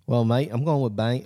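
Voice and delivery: casual attempt at an Australian accent; botched Australian accent. Announcing a food pick, in accidental Australian accent. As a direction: slip into a rough Australian accent by mistake. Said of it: "Oh, no, that's Australian, isn't it?".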